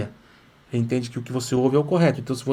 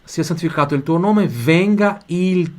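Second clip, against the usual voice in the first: deliberate Italian recitation, slowing markedly at the end; teacher's model reading, increasingly drawn out; model for repeating; 3 semitones higher, 4 dB louder, slower than usual. Shown as a demonstration. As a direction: recite for learners to repeat, stretching the last phrase. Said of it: "você vai repetir em voz alta".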